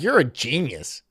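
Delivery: fake-cheer the sucker in front of everyone; mocking guru applauds his best customer; sarcastic praise. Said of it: "I'd be like".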